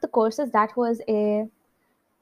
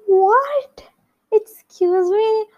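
high, loud and slow, indignant; how I'd have liked to snap at the caller; rude mock outrage; 11 semitones higher, 4 dB louder, much slower than usual. Mocking the caller, loud and indignant. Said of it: "I didn't say it like that".

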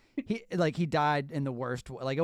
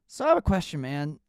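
put-on Australian accent; 5 dB louder than usual. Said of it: "Your Australian accent is awesome".

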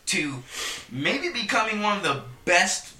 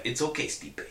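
imitating a soft, unbothered near-whisper, slowing down; nonchalant; 2 semitones lower, 6 dB quieter than usual. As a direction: say it quietly and coolly, like a done deal.

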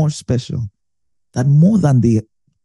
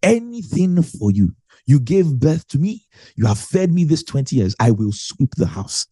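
eager son; 2 semitones higher than usual. Retold or imitated. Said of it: "He said".

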